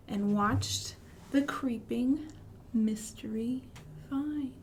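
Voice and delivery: storybook lilt dropping to a whisper on mystery; reading to children. Acted. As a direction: read gently, hush the mystery.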